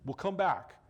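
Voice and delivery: fast, pressing plea to hurry; hurried plea. Acted. Jairus pushing Jesus to go, quick and urgent. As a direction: Jairus rushing Jesus to leave.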